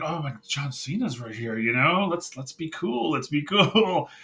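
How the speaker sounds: hushed mock fanboy excitement breaking into a laugh; giddy but contained, lightly acted; fangirling almost. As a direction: imitate a starstruck fan trying to play it cool. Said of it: "fangirling almost".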